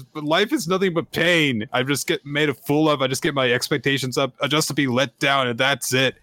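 mild voiced despair; despairing girl. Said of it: "And she says".

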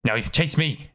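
a hint of a small creature voice; playful pup. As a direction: tease like a pup playing tag. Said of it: "And he's like".

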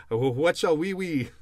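breaking into real laughter mid-quote; can't get through the line for laughing. Real, not acted. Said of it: "I'm, I'm laughing because".

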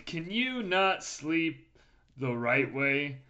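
slow, earnest infomercial pitch. Pretend. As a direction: sell it like a late night ad. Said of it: "It sounds like an infomercial".

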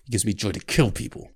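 rough, menacing soldier; a hateful killer savoring the word kill; practiced Hound voice. Acted. Scarred killer answering the frightened girl, cold menace. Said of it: "I practiced the voice".

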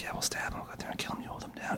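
hushed plotting whisper, barely voiced; conspiratorial whisper. Retelling the voices he heard in the kitchen, whispered. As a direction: whisper like killers plotting in the next room. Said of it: "that's what I was hearing in the kitchen".

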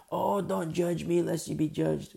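slow, mock-indignant retort; defensive churchgoer. Church member snapping back at the correcting sister, mock huffy. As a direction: throw the scripture back like an excuse.

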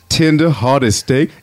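lightly voiced ad announcer. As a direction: pitch the food in an easygoing voice. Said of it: "announcer voice is this".

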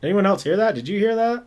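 man doing a woman's voice. Pretend. Mimicking the ghostly girl's voice.

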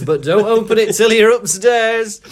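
brisk, stern teacher voice; a touch of a strict professor; McGonagall voice. A narrator's reading. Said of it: "McGonagall says".

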